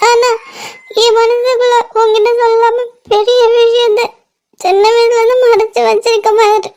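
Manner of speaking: confessing through held-back sobs; tearful. Acted. Admitting a secret kept since childhood, tearful. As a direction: plead for forgiveness with a crying voice. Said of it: "இப்படி அழாதடி".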